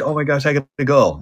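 playful desperate exclamation; mock urgency. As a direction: act out suddenly needing the bathroom. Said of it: "you're like".

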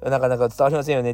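なかなか伝わりませんよね rattled off quickly; quick restatement. Shown as a demonstration. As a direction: say 伝わりませんよね fast, as a quick rephrase. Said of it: "っていうか". (早口で言い直す)

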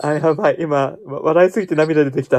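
breathless from laughing; after laughing hard. Real, not acted. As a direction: still recovering from a laughing fit.

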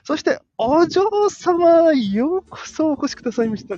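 high, slow, grand butler's welcome. Acted. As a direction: greet the young lady like a butler. (執事風の丁寧な歓迎)

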